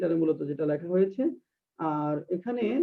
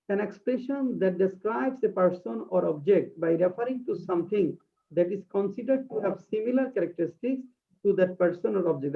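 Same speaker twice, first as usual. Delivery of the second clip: very slow, deliberate reading of a definition; slow dictation; much slower than usual. Shown as a demonstration. Teacher reading a definition aloud to her class, slow dictation. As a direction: read it word by word for students to copy. Reads English definition slowly.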